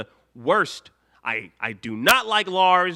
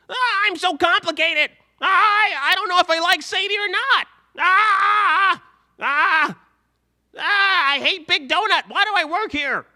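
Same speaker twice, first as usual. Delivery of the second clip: high, loud whining with anguished yells; hammed-up angsty groans and wails; Lars impression; 7 dB louder than usual. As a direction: melodramatic teen meltdown, pitched way up and shouting. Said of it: "That's my Lars".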